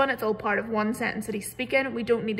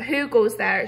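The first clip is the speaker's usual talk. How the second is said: mild mock troll shout; a light troll shout; 5 dB louder than usual. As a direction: call out like a grumpy troll. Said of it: "shouted the troll".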